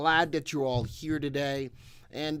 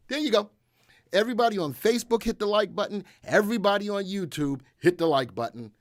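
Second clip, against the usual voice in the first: hyped-up call; 7 semitones higher, 3 dB louder, faster than usual. Real, not acted. Hyping viewers to hit like.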